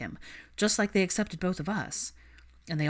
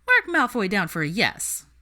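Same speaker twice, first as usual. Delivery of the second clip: louder, cheeky Ginny; grinning tease; 3 semitones higher, 5 dB louder than usual. Acted. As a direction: gloat with a grin. Ginny grins, teasing.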